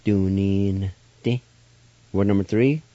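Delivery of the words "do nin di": Do, nin, di with the N through the nose; Do, nin, di modelled with a nasal N; nasalized N. Shown as a demonstration. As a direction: say Do, nin, di once more with a nasal N. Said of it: "Let me say it one more time".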